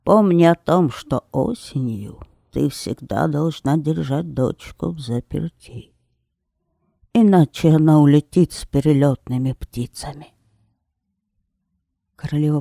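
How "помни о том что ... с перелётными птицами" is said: loud warning called from a distance; shouting after. Acted. Witch shouting her autumn warning after the queen, loud call. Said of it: "крикнула ей вслед колдунья".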